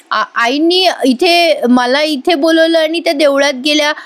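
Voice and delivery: hesitant, halting start, slowed; stumbling over words. Retold or imitated. Janaki stumbling while accusing Aishwarya, halting. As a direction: trip over the first word then push on. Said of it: "जानकी हे बोलताना अडखळते".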